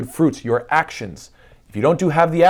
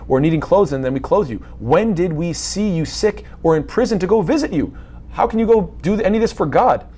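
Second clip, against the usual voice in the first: higher-pitched, mildly incredulous questions; lightly acted bewilderment, pitch lifting; puzzled questioning; 4 semitones higher than usual. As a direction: ask as if honestly baffled. Righteous question God in disbelief.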